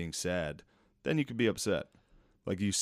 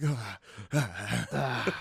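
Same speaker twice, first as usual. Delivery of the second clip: mock ecstatic ahs; 5 semitones higher, much slower than usual.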